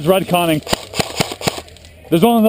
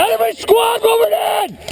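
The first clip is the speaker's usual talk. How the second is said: high warning, slower; urgent shout; 9 semitones higher than usual. Real, not acted. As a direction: call the warning again. Repeating the warning.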